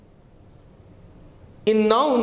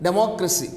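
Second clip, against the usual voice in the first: democracy stressed on "moc"; stress on second syllable; 2 semitones lower, much faster than usual. Shown as a demonstration. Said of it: "we have the stress in democracy".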